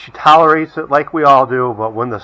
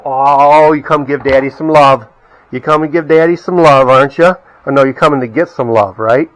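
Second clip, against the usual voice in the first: doggy love talk; 3 semitones lower than usual. Real, not acted. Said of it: "You see how we talk to our dogs?".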